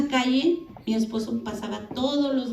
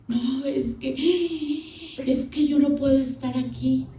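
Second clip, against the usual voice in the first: higher, mock tearful protest; imitated crying; 5 semitones higher than usual. Young wife crying to her husband, imitated tearful voice. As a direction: act out whining through tears. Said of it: "Pues me puse a llorar".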